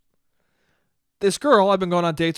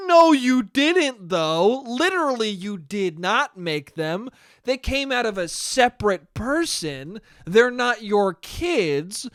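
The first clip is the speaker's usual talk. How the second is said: exasperated insistence; 2 semitones higher, slower than usual. Retold or imitated. Arguing with date about kids.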